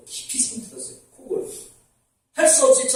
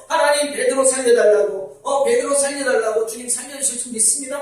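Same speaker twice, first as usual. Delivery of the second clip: urgent prayer; 3 semitones higher than usual. Retold or imitated. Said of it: "막 기도하고 난리가 났어요".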